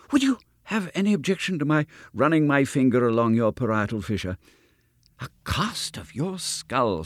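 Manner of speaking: lightly voiced, fussy enthusiast; a hint of an odd, fervent scientist; eccentric doctor. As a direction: gush over the skull a little too keenly.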